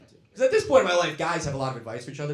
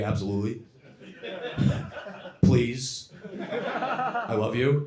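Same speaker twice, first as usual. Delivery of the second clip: mock eager pleading; much slower than usual. Drunk swiping, playing the game.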